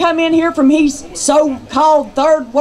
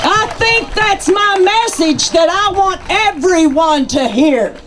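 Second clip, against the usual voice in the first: rally speech; 3 semitones higher than usual. Real, not acted.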